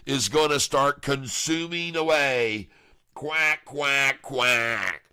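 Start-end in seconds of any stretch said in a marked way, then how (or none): 3.1-5.0 playful quacks, stepping down in pitch; duck quacking. Pretend. Trader cheers on his mallard stock pattern, playful duck quacks.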